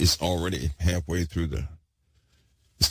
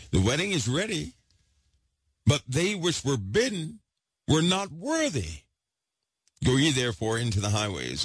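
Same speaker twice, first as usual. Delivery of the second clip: scripture reading; 3 semitones higher than usual. Acted. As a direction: read the verses out with lift. Reads Matthew aloud.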